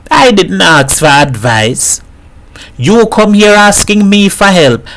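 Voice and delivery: a mother mocking her dead husband to a visitor; lightly voiced Trinidadian mother joking.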